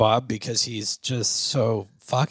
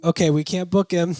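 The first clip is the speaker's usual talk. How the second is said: laughing clerk voice; 7 semitones higher, 5 dB louder than usual. Retold or imitated. Booking lady voiced, laughing.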